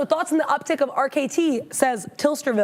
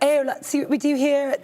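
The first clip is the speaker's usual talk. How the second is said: put-on British accent. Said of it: "I don't know why I'm British".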